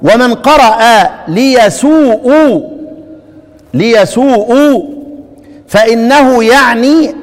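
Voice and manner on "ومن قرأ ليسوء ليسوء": slow ليسوء with long final oo; recited reading. Shown as a demonstration. Teacher explaining a reading, slow stretched word. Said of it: "طيب".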